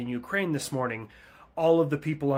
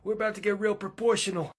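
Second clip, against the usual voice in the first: high, mocking voice with a laugh, louder; mocking military threat; 9 semitones higher, 3 dB louder than usual. A navy mocks the Russian fleet in a high, laughing voice. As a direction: sneer the threat and laugh at them.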